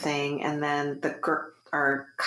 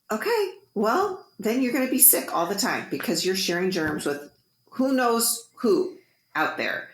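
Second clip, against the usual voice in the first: high okay, then a lecturing run; retold motherly scolding, starting high; exasperated mom; 4 semitones higher than usual. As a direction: lecture your daughter, slowing at the end.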